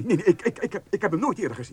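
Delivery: flustered denial. Acted. Guard flustered under questioning.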